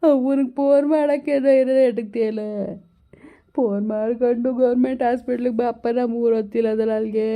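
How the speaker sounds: a hint of a lamenting old grandfather, pleading; old grandpa begging his grandson to come, mildly lamenting; lightly voiced old grandpa. Grandpa on the phone to grandson Madeva, mildly lamenting.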